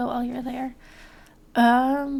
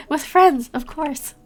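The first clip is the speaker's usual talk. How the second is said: laughing; 3 semitones higher, 8 dB louder, slower than usual. Real, not acted. Laughing echo of the hint.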